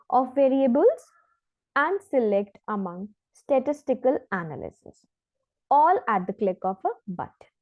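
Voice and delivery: slow, careful reading of a test passage; measured demo reading; exam read-aloud. Shown as a demonstration. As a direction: read it out like a model answer. Reads example passage aloud.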